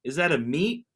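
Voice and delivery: high, puzzled questions, laughing; pretending to ask grocery staff about hammock; mock confused shopper. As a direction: play a baffled shopper. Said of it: "You're just like".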